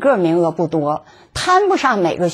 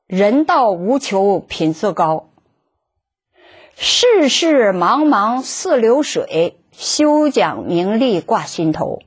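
slow, measured classical verse; poem recital; slower than usual. Acted. Reciting an old verse to her listeners, slow and measured. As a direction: savour each line like an old poem.

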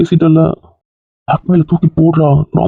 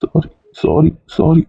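crying apology; 3 dB quieter, much slower than usual. Acted. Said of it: "எதுக்கு அழுவுற?".

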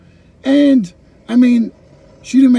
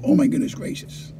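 amazed whisper; 6 semitones higher, 4 dB quieter than usual. Real, not acted. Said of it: "own amazement at the years".

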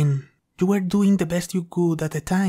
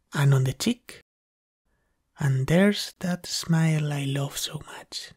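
fond whisper. Acted. Whispered after kissing partner.

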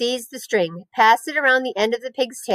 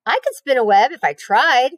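boasting; 4 semitones higher, 4 dB louder than usual. Acted.

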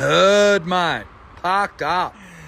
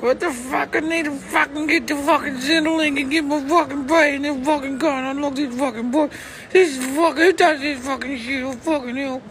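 imitating a furious stranger; faster than usual. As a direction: spit out a stream of swearing like the fed-up girl. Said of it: "and this chick's like".

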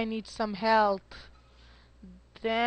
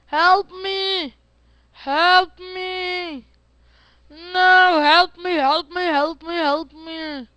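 higher, pleading fake panic; mock cry for help; 4 semitones higher, slower than usual. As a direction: play the helpless victim begging. Pretend victim cries for help.

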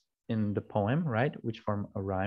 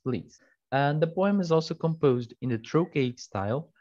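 usual speaking voice

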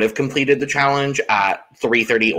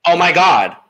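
Brittany's mock overwhelm; 3 semitones higher, 4 dB louder than usual. Acts Brittany overwhelmed after winning.

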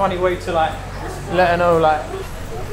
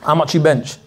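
gym guy; 4 semitones lower than usual. Retold or imitated. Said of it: "that's how gym guys speak".

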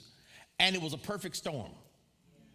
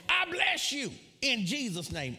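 raised, high-pitched proclamation; forceful re-enacted blessing; 7 semitones higher, 4 dB louder than usual. Preacher re-enacting blessing the cussing guy, high emphatic proclamation. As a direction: replay the blessing as an emphatic outburst. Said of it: "That's how I said it".

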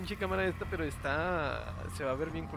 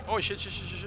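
panicked cursing; 4 semitones higher than usual. Real, not acted. Panicking while enemy attacks.

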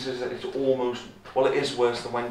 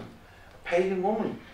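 "pagan woman" set apart, lifted for emphasis; 4 semitones higher than usual. Real, not acted. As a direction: gently underline "pagan woman" with a raised tune. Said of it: "We keep emphasizing".

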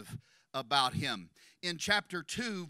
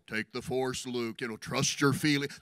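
lower, mock wise-mentor voice; a hammed-up Obi-Wan; mocking a movie mentor, lower; Jedi master impression; 7 semitones lower than usual. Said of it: "the Star Wars force".

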